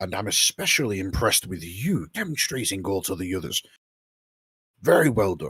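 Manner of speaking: private, confiding, quietly spoken. Narrator voicing a character who helps the listener up, somewhat hushed. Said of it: "says in a somewhat hushed tone".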